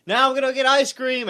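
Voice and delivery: lightly acted quote, pitched high; imitated announcement. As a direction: announce it high, as if ending a tirade. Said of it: "at the end he's like".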